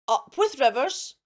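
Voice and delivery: a light hooted cheer; mild happy hoot. A narrator's reading. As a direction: call it out like a happy herd. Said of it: "And they hooted".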